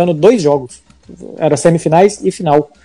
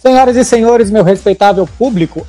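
big booming showman welcome, higher and louder; ringmaster; 5 semitones higher, 5 dB louder than usual. Acted. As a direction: open the show like a circus ringmaster. Grand opening of the show.

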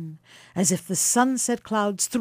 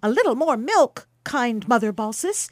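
higher, louder polite request; cheeky young guest; 5 semitones higher, 4 dB louder than usual. Acted. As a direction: ask sweetly for more. Quicksilver asks for more milk.

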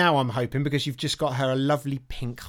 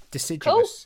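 mispronounced attempt; 4 dB louder than usual. Real, not acted. Struggling with a word.

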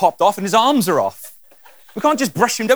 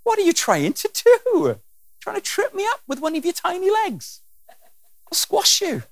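amused God; 13 semitones higher than usual. Acted. He laughs.

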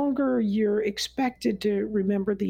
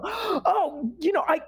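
mock surprise; 7 semitones higher than usual. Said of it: "and I go".

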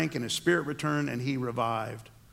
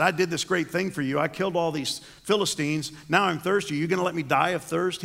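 complaining; 3 semitones higher than usual. Retold or imitated. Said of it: "he's complaining to God".

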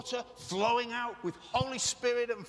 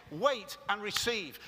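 emphatic preaching shout; slower than usual. Real, not acted. Preacher stressing the command.

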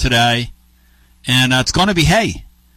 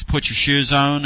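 slow, drawled imitation of a sweet wife; lightly voiced soft country sweetness. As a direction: imitate her sweet Southern drawl, taking your time. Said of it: "in that soft, sweet voice".

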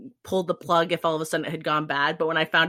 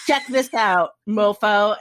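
triumphant taunt; 3 semitones higher, 5 dB louder, slower than usual. Retold or imitated. Retelling triumphant texts to husband.

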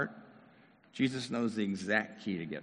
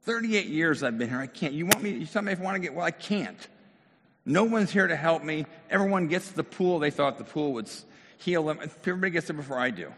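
emotional rant; 4 semitones higher than usual. Acted. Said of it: "There was probably emotion to his response".

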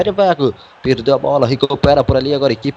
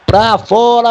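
excited shout; much slower than usual. Real, not acted. Commentator calls a shot wide.

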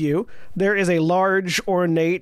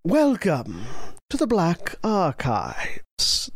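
slow, lightly voiced skeleton; a hint of an old undead host; much slower than usual. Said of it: "the skeleton says from the desk".

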